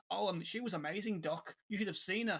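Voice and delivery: put-on a light Birmingham accent for Dan's line; mock Birmingham accent. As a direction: quote Dan with a hint of Birmingham. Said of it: "why did you do a Birmingham accent?".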